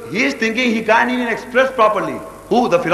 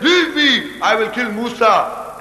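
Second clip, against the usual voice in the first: high "leave me", then a slower threat; acting held back; 3 semitones higher, slower than usual. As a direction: bluster as though being restrained. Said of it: "as if somebody is holding him".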